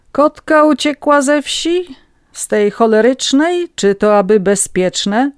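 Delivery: high, loud, slow character voice; gentleman from the hall. Acted. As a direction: call out a question in a put-on high voice. Gentleman calls from hall, mocking alarm.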